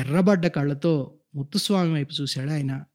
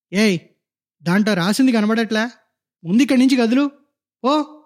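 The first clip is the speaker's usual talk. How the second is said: higher, louder nasty snap; hissing nurse; 5 semitones higher, 3 dB louder than usual. Acted. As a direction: snap at the old woman to move along. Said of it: "బుసలు కొట్టింది".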